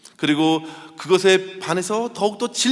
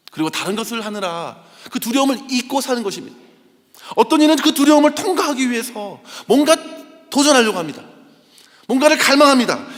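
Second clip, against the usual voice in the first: higher, louder, driving sermon voice; fervent preaching; 5 semitones higher, 5 dB louder than usual. Acted. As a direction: press the congregation with urgency. Preaches with rising force.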